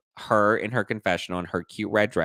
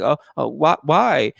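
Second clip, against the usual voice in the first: loud, higher mock-startled stammer; imitated stunned reaction; 6 semitones higher, 7 dB louder than usual. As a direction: mimic being caught off guard. Imitates stunned woman asked to leave.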